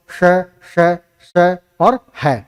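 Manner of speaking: slowly separated "श, श, स", each sibilant hissed, then "है"; pronunciation demo. Shown as a demonstration. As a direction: sound out "श", "स" and "है" one at a time. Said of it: "तो उच्चारण कैसे हुआ?".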